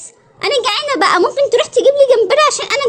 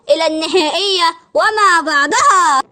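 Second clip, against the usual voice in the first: lower, drawn-out hero voice; heroic catchphrase; 5 semitones lower, slower than usual. Acted. Space toy pledges to help the mermaid, heroic. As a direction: stretch it out like a toy hero's motto.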